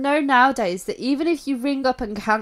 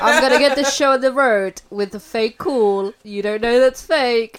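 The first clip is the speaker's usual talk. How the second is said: parody fake caller; 6 dB louder than usual. Hammed-up parody of fake call.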